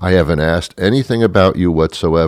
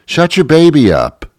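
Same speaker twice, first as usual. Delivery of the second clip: mock snapping at a parent; 9 semitones higher, 4 dB louder than usual.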